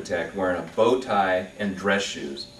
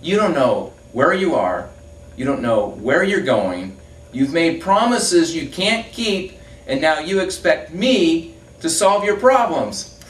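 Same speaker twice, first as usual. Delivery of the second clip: slow, louder, spelling out each charge; slow punchline; 8 semitones higher, 7 dB louder, slower than usual. Acted. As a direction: lay the punchline down slowly and loud. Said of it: "says the man".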